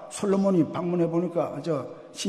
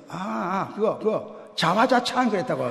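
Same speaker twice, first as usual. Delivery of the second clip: laughing son; 5 semitones higher, 5 dB louder than usual. Retold or imitated. Son answers his mother, laughing.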